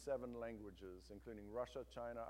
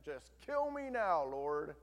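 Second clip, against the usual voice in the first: despairing plea; 5 dB louder, slower than usual. Acted. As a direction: drag it out like you want to die. Jonah begs to die.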